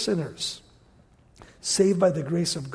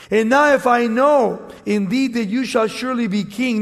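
raised, emphatic Bible reading; scripture reading; 3 dB louder than usual. Acted. Preacher reads scripture to congregation, emphatic and raised. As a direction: read the verse out to the congregation.

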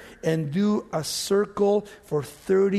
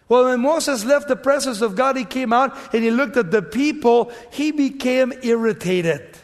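raised, driving pulpit storytelling; forceful preaching; 5 semitones higher, 6 dB louder than usual. Real, not acted. Preacher telling congregation of Moses facing the people, preaching forcefully.

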